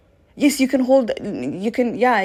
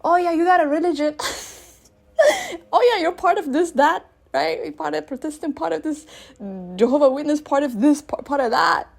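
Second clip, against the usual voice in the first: mocking voice; 5 semitones higher than usual. Mocking people's religious belonging.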